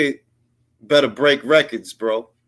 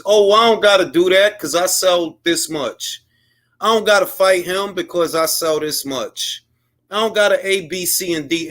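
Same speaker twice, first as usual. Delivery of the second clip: mocking the excuse; 4 semitones higher than usual. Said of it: "But the excuse is".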